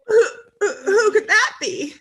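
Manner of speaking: high, sing-song who's there; mock surprise.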